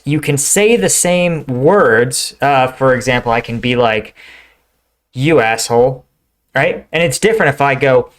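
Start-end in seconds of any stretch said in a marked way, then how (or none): 5.1-6.0 light, friendly "You asshole" with a rising end, like greeting a pal. Shown as a demonstration. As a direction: say "You asshole" as a warm hello. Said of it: "you're greeting a friend".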